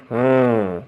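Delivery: low, drawn-out pretend-thinking hmm; playful mock-pondering "hmm"; pondering hum. A narrator's reading. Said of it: "सोचने विचार करने का नाटक किया".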